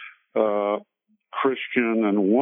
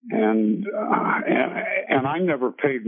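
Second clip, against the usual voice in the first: fighting back tears as he speaks; getting emotional recalling his teacher's kindness; choked up; 5 semitones higher than usual. Real, not acted. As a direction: voice catching with real tears, breaking into a sob.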